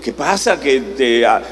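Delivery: David's desperate plea, pitch rising to a cry; a psalmist crying out in distress; anguished lament. Retold or imitated. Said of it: "David le dice".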